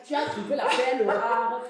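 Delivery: put-on laughing, playful Cameroonian French accent. Host teasing guest about her husband in a Cameroonian accent. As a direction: slip into a Cameroonian accent while amused. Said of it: "je change même l'accent".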